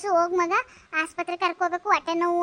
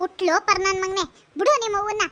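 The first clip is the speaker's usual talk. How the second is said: outraged neighbour telling him off; acted angry reproach; indignant scolding. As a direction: berate him sharply. Neighbour scolds son for beating mother.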